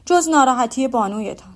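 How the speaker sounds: a fussy suitor showing off his courtesy; Mr Collins farewell speech. Acted. Collins taking leave of the Bennet ladies, pompous and loud.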